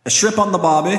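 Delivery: high-pitched, hammed-up Australian; bad Australian accent. Friend answering a request for an Australian, bad Australian accent. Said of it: "can you do an Australian".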